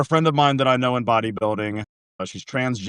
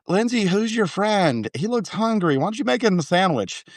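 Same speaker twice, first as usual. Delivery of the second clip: put-on old grandma voice; 8 semitones higher than usual. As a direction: voice a confused grandmother. Grandma with memory loss voiced.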